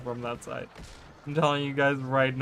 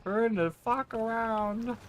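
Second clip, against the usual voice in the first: urgent; 9 semitones higher than usual. Real, not acted. Shouting at team to flee.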